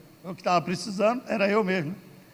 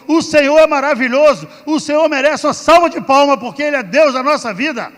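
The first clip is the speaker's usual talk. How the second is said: louder, higher fervent preaching; preaching at full force; 5 semitones higher, 11 dB louder than usual. Real, not acted. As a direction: build into a rousing sermon. Preaches to congregation after testimony.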